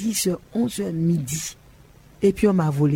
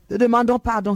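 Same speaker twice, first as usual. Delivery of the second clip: higher, louder plea for pardon; 6 semitones higher, 4 dB louder than usual. Real, not acted. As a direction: cry out for forgiveness. Prayer repeat, louder emphatic.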